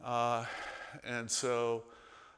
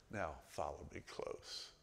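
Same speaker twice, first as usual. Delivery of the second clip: country preacher; 7 semitones lower, 10 dB quieter than usual. Retold or imitated. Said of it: "and he'd go".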